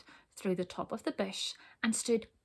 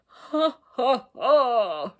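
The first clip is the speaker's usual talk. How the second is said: loud, high ha ha ha; roaring laughter; 3 semitones higher, 10 dB louder, much slower than usual. Acted. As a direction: roar with helpless laughter. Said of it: "roared the dragon".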